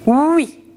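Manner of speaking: drawn-out teacher's oui; sound demo. Shown as a demonstration. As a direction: model the sound oui clearly for the class. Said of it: "le son".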